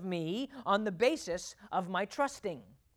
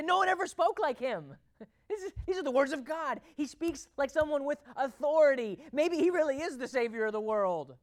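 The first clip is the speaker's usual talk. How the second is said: higher, animated mock amazement; retold awed soldiers; 5 semitones higher, 3 dB louder than usual. Empty-handed soldiers answering the Pharisees about Jesus, acted amazement. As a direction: act out soldiers marvelling, pitched up. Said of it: "And they say".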